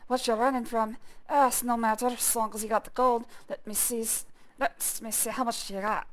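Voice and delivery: lightly voiced slurring pirate captain; a hint of a drunk captain haggling for gold; drunken sea captain. Player reads the drunk captain asking for passage gold, lightly slurred. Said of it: "drunkenly slurs".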